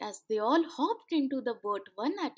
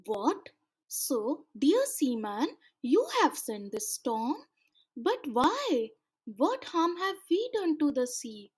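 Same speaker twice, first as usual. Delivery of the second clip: curious; 2 semitones higher than usual. Acted. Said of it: "asked Chocolate Grandfather curiously".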